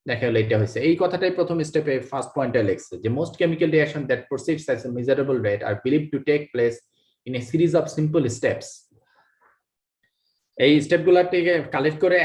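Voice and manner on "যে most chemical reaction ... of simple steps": very slow, word by word reading of the English line; slow dictation. Shown as a demonstration. Teacher reading the textbook line to students, very slow and deliberate. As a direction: spell it out slowly so students can copy.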